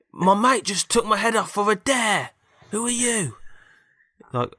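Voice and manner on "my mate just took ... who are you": very high, slow robot voice; robot character. Acted. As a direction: wail it high and drawn out as the robot. Robot head explains itself, acted.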